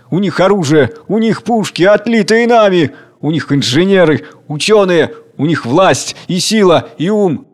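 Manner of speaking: worried workers protest; fearful crowd voices. Acted. (встревоженные голоса)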